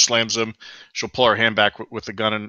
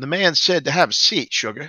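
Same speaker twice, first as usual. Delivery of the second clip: honeyed, sugary Southern drawl, pitched up; 5 semitones higher than usual. Voicing a character who slams a guard against a wall: sweetest southern drawl. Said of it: "in the sweetest Southern drawl".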